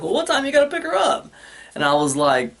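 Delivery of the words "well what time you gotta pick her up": higher, lightly voiced dentist asking; dentist's question. Dentist in the hallway calling his bluff, in a higher mimicking voice. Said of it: "She's like".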